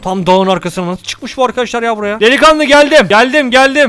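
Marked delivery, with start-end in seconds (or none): 2.2-3.9 loud call across the snow, higher. Real, not acted. Calling to his partner across the mountain, loud and high. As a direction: shout out that help has arrived.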